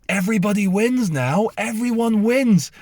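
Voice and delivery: smiling sarcasm, slowing on the last words; sarcastic. Retold or imitated. Father mocks security women as they leave, sarcastic. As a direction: drip fake cheer onto them. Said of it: "my most sarcastic smile".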